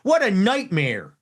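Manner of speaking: put-on lightly done Baltimore accent on "What a nightmare"; a hint of an old Baltimore grandfather. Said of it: "with the Baltimore accent".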